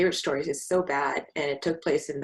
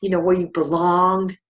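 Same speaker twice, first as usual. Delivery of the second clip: pushy landlady; 3 semitones higher, 6 dB louder than usual. Retold or imitated. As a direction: press the point like a condescending landlady. Imitating the landlady pressing on.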